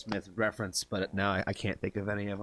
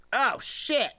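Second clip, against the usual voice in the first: surprised; 11 semitones higher, 3 dB louder than usual. Real, not acted. Viewer guesses instantly.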